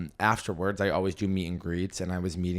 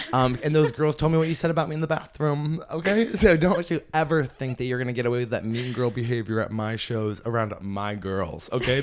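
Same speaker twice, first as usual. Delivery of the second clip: scolding; 2 semitones higher than usual. Real, not acted. Addressing rude girls directly.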